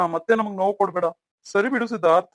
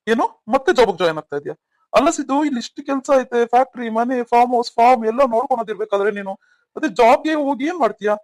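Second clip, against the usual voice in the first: higher-pitched, disbelieving remonstrance; incredulous objection; 4 semitones higher, 4 dB louder than usual. Acted. Older brother questioning Siddu's return to his job, incredulous. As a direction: challenge him in raised, disbelieving pitch.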